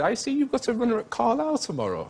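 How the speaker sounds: a light mock-royal lilt; imitating the Queen. The Queen congratulating him, lightly voiced royal. The Queen asking about racehorse.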